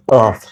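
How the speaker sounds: "কফ" with a back-of-throat q; heavy, rounded q opening "কফ"; Arabic qaf. Shown as a demonstration. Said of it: "উচ্চারণটা বারবার practice করুন". (আরবি ক্বফের মতো গলার গোড়া থেকে "কফ")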